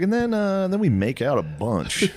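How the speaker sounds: starts very high, slows down; mock sheepish suggestion. Director proposing a kiss scene, high and hesitant. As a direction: pitch it up high, then draw it out.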